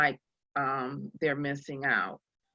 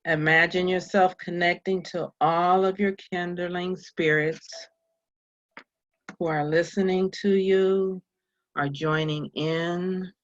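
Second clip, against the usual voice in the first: guided meditation. Real, not acted.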